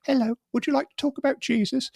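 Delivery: a chirpy Jehovah's Witness at the door; door-knocking preacher. Retold or imitated. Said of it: "and he'd go".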